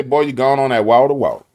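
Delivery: folksy New Orleans saying, water with a D; New Orleans local calling out about water; New Orleans accent. Retold or imitated. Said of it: "Down here in New Orleans, say".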